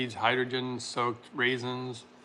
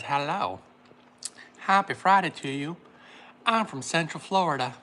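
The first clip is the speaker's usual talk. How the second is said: put-on Southern accent; 2 semitones higher than usual. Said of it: "I'm talking like she's from the South".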